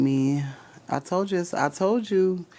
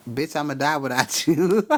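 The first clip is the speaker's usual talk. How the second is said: mocking laugh. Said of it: "gonna say some stupid shit like".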